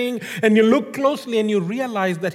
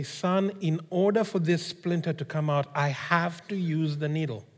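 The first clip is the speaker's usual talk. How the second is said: gentle father; 4 semitones lower than usual. Retold or imitated. Father gently explains to son.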